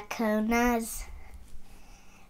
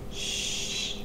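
shushing; 3 dB quieter than usual. Acted. End of bedtime story.

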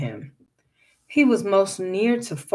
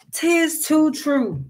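calm; 8 semitones higher, slower than usual. A narrator's reading. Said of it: "as calm as he could".

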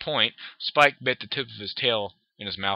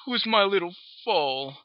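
high sing-song mom voice; cooing mother; 8 semitones higher than usual. Acted. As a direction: talk down to her like a baby. Mother coos at daughter.

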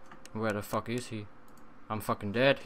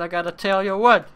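lively build-up; 5 semitones higher, 9 dB louder, faster than usual. Shown as a demonstration. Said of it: "repeated louder".

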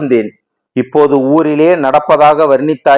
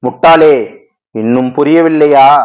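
scolding; 3 dB louder than usual. Acted. Goddess scolds devotee.

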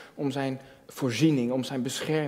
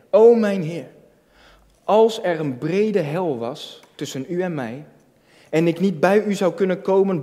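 a hint of an imprisoned preacher pleading, loud at first then settling; lightly voiced pleading prisoner; fervent prayer; 3 dB louder than usual. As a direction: read the old prayer with rising passion. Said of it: "riep hij tot de Heer".

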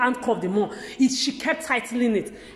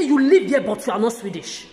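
louder retort on You live here, then dropping; retold angry shout; 4 dB louder than usual. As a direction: snap back at the officers. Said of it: "I said".

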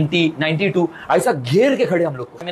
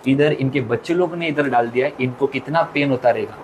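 sad heartfelt message; 4 semitones lower than usual. Retold or imitated. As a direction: speak the pain gently and low. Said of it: "एक message दूंगी". (धीमी, दुखभरी भावुक बात)

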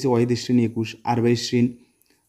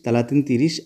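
ordinary delivery

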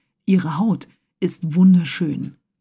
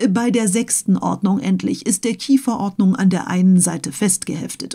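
pedantic Conseil. Acted. Conseil keeps classifying.

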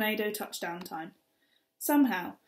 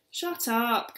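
mild shout; 3 semitones higher, 4 dB louder than usual. Acted. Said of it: "Kat shouted".

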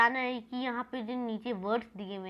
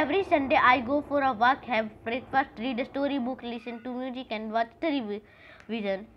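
louder, slow, upbeat announcer read; 4 dB louder, much slower than usual. Acted. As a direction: read it like a TV commercial. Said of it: "ऐड की तरह हो गया ना".

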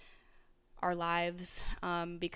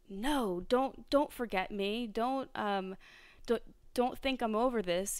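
half-hearted acted scream, pitched up; mock scream; 4 semitones higher than usual. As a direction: mildly voice a screaming inner child, raised in pitch only. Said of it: "is gonna be screaming at".

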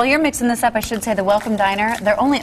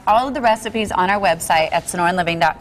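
talking through a mouthful; mouth full. Real, not acted. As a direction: speak around a bite of food. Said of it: "trying not to talk, um, with my mouth full".

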